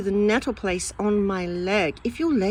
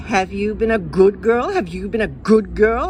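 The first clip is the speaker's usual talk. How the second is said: nagging grown-up; 6 dB louder than usual. Retold or imitated. Adults nagging the child Jane.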